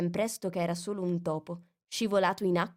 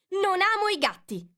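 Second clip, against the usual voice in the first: much higher, louder indignant squeal; shrill passionate cry; 13 semitones higher, 5 dB louder than usual. A narrator's reading. Mouse protests hotly to Alice. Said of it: "con voce acuta e piena di passione".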